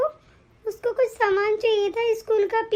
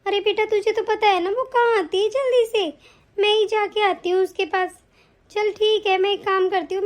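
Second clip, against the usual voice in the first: put-on a lowered older woman's voice; mother asks her son, lightly lowered voice; lightly voiced mother-in-law.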